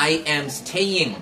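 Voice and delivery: "I am staying" slowly, each word carefully sounded; slow model of "staying" for pupils to copy; pronunciation demonstration. Shown as a demonstration. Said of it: "আগে উচ্চারণটা খেয়াল করো".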